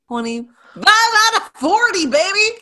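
loud, high, triumphant crow; real gleeful victory shout. Real, not acted. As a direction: crow the winning roll slowly and loudly. Celebrating a successful dice roll.

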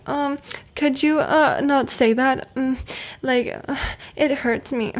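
mock timid request, trailing off; hesitant. Mock timid ask to the family member who kept commenting. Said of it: "It wasn't like me going like".

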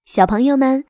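usual speaking voice

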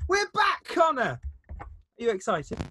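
airline pilot announcing to the cabin; pilot announcement. Acted. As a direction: announce it like a pilot over the intercom. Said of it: "started off as an air pilot announcing".

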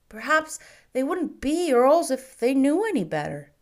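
put-on a curious small boy, bright and keen; little boy asking. A narrator's reading. Boy asks the shopkeeper about marquises, high and eager. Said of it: "feeling some vague sympathy".

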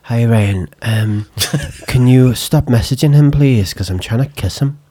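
attempted Irish accent, imitating her; amateur Irish accent for a voice note. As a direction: put on a rough Irish accent. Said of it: "well, she's Irish, and she was like".

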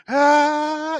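high drawn-out battle yell; anime yell. Retold or imitated. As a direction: Dragon Ball style power-up scream. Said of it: "all the yelling".

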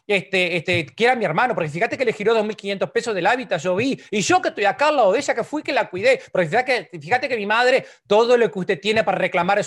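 high, loud aggrieved complaining about mother; whiny grievance rant. Retold or imitated. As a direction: rant like a resentful grown child listing every grievance. Hijo adulto enumera reclamos a mamá. (queja resentida, aguda y fuerte)

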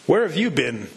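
a lightly voiced demanding question; demanding father. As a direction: press the boy firmly for an answer. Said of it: "demanded the father".

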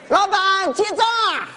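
calling out. Acted. Freeloader calls the boss to pay.

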